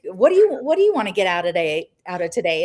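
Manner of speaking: mock eager host. Imitating host greeting the boy.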